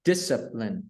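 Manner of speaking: "Discipline" with the first syllable stressed; stress on DIS. Shown as a demonstration. Teacher repeats the word for learner, stress on DIS. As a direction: hit DIS in "Discipline", the rest falling. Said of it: "nhấn âm, âm dis".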